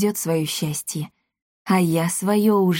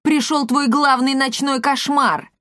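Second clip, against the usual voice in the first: slow taunting shout; 7 semitones higher, slower than usual. A narrator's reading. Angry trader taunting the merchant.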